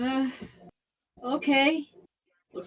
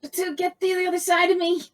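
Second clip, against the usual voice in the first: higher-pitched urgent order; a touch of urgency, pitched up; calling out; 5 semitones higher than usual. Acted. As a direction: call an ally over, without shouting. Calls an ally during the fight.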